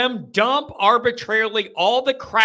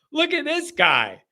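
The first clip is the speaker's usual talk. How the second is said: stretched and raised like an announcer; drawn-out hype for a caller; slow, higher showman call; 6 semitones higher than usual. Shown as a demonstration. Hyping up a favourite caller, slow and raised.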